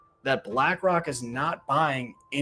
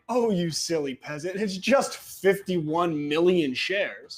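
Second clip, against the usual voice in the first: mock superiority; 4 semitones higher than usual. Mock elite scoffing at the public.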